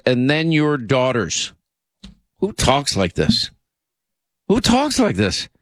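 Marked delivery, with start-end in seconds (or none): 4.5-5.5 much higher, incredulous repeat; stunned disbelief. Real, not acted. Host reacting to an offensive clip, pitched-up disbelief. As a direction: say it again as if you can't believe your ears.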